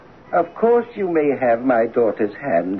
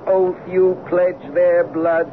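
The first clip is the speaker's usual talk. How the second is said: solemn oath swearing; 7 semitones higher than usual. Acted. Father intones vengeful curse oath.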